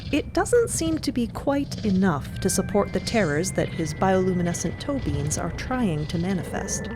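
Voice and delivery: ordinary talk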